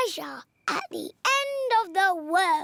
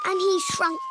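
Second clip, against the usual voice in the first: climbing higher and higher; rising squeaky voice. Acted. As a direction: voice shrinks up to a squeak. Story: Georgie shrinks.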